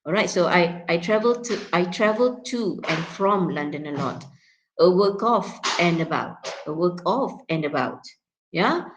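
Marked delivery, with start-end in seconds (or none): 1.7-4.2 TO and FROM in full strong forms; weight on TO and FROM, vowels unreduced; stressed function words. Shown as a demonstration. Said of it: "you need to stress the function words". 4.8-8.0 OF in its strong form with full vowel; stressed OF. Shown as a demonstration. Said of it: "you need to stress the function words".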